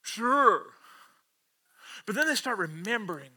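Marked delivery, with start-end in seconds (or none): 0.0-0.7 drawn-out, unconvinced going along; sceptical agreement. Acted. Disciples answering odd fishing advice, sceptical. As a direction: agree as if humouring a stranger.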